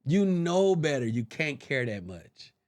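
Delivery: slow down and let it drop, resigned; self-reproach. Retold or imitated. Scolding himself on drive home.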